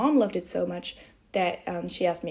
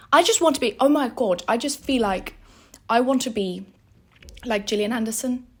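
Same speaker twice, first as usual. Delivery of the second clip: excited British-accented chat; 2 semitones higher, 5 dB louder than usual. Shown as a demonstration. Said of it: "a decent British accent".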